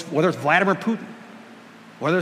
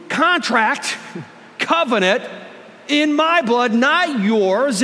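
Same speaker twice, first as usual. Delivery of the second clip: voicing Jesus; 5 semitones higher, slower than usual. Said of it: "he looks at the disciples and he regularly looks at you and he says".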